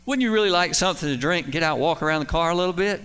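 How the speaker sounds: mock-pushy wife spelling it out; pointed, insistent question. Wife finally pushes the point.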